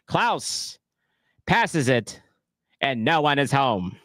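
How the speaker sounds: a light hint of a 1920s gangster, unhurried; lightly voiced old-time mobster calling the plays; late twenties mobster. Streamer calling the match for chat as a 1920s mobster. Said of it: "late twenties mobster".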